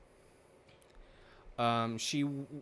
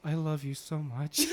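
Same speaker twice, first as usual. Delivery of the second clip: laughing quote; 3 semitones higher than usual. Real, not acted. Quoting her, laughing.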